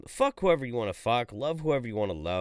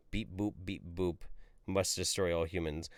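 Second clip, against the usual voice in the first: robot voice; 5 semitones lower, 6 dB quieter than usual. Pretend. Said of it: "Cyborg tranny Jeff".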